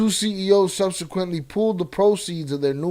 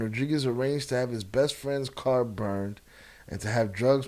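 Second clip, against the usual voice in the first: lisping, soft and low from a sore tooth; slight lisp through a sore tooth; whistling s; 4 semitones lower, 3 dB quieter than usual. Real, not acted. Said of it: "Excuse my lisp. I got a sore tooth".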